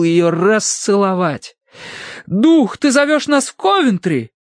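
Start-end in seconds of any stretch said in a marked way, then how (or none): 2.3-4.3 high, theatrical question; addressing a spirit. A narrator's reading. Mrs. Mering asks the spirit about Coventry, high theatrical. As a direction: call up to the spirit.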